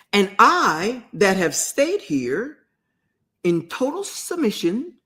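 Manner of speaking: put-on the resentful older son confronting his father, heated; angry outburst. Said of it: "he is so angry".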